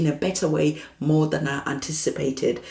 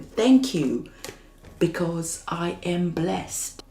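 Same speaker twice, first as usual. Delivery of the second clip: slow affirmation; much slower than usual. Acted. Voicing a gratitude affirmation.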